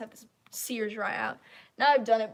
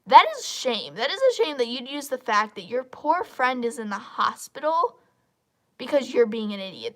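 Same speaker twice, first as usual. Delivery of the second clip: indignant; 8 dB louder than usual. Real, not acted. Indignant rant at user.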